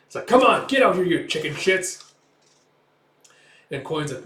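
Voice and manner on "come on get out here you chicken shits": loud, high challenge, slowing at the end; taunting yell. Retold or imitated. Pirate to the crew inside, taunting yell. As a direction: goad them into a fight.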